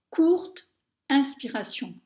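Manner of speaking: short loud breath in; breathing demo. Shown as a demonstration. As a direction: say it while gasping in air. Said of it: "Alors, regardez".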